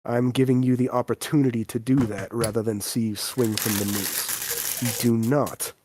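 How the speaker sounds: put-on a measured warning to a disgraced child; stern father.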